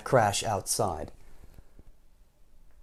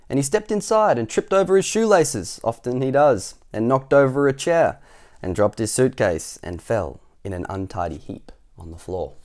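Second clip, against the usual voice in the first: story narration; 4 dB louder than usual. A narrator's reading. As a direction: tumble through the mishaps, then drop down. Reads story to children.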